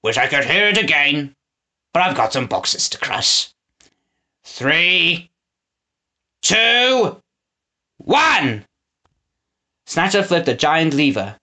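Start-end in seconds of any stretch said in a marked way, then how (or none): 0.0-8.7 gleeful villain countdown. A narrator's reading. Snatcher counts down to crushing the boxes, gleeful. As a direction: savor each number like a treat.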